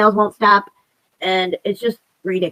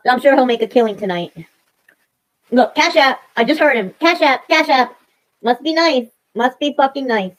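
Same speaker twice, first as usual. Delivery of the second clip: higher mocking sneer; resentful mock of Cash App begging; bitter sarcasm; 4 semitones higher than usual. Real, not acted. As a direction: scoff at his luck. Mocking another streamer's donations.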